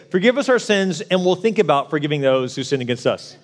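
a mocking, laughing misquote; mock wrong version. Shown as a demonstration. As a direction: say the lazy version with a chuckle. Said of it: "this doesn't say".

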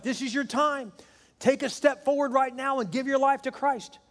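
high ringing North Carolina altar call; Billy Graham. Retold or imitated. Preacher calls the crowd forward, urgent North Carolina accent. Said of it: "in that great North Carolina accent that he has".

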